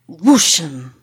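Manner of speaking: drawn-out whoosh of a crash; imitated crashing noise. A narrator's reading. Narrator imitates the noise in the hall, drawn-out whoosh. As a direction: voice a heavy thing slamming, stretched out. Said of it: "heaviest fucking thrashing noise".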